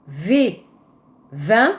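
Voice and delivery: vin with a buzzing V, teeth on lip; clear V. Shown as a demonstration. Teacher showing V for Korean students, buzzing. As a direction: say vin with a real V, not a B. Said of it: "et le V".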